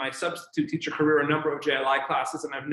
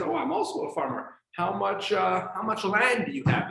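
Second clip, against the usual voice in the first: higher, boastful Texan guy; lightly voiced proud Texan; Texan farmer; 6 semitones higher than usual.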